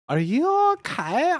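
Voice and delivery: a hint of worried goth girl; heroine's voice. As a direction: ask it wide-eyed and breathless. Heroine asks Draco, acted.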